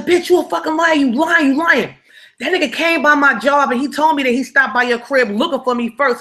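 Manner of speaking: put-on jealous boyfriend raising his voice at her; accusing boyfriend.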